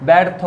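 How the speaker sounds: ব্যর্থ as 'baertho', the first vowel like English 'bat'; demonstrated pronunciation. Shown as a demonstration. Teacher showing students how it is pronounced, ব্যর্থ with open 'ae'. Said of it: "উচ্চারণ হবে".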